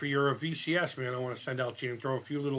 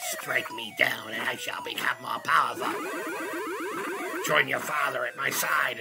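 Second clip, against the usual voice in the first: the Emperor; 3 semitones lower than usual. Retold or imitated. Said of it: "The way he taunts Luke".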